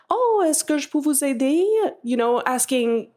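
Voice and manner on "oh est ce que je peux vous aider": French, a little higher, in another timbre; voicing the helpful French shopper; French quote. Caller quotes the Francophone woman offering help, in French. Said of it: "turned to the Anglophone woman and said".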